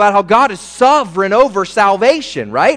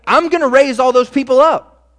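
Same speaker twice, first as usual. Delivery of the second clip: excited promise; 5 semitones higher, 4 dB louder than usual. Retold or imitated. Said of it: "And he says".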